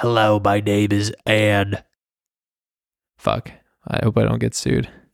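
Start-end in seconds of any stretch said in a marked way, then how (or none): 0.0-1.8 rough-edged, gravelly female voice. Recalling a petty woman who was tough to work with, imitating Anne's rough voice. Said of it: "had like a very rough voice".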